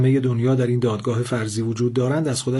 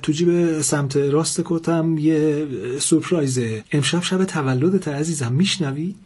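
trembling voice; 5 semitones higher than usual. Acted. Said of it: "با صدای لرزان گفت".

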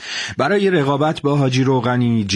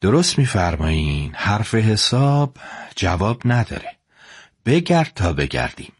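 cool and calm. Acted. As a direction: answer the threat coolly, in no hurry. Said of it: "با خونسردی جواب".

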